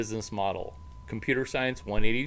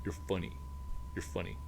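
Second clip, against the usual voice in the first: soft fawning; 5 semitones lower, 13 dB quieter, faster than usual. Retold or imitated. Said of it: "They're just like".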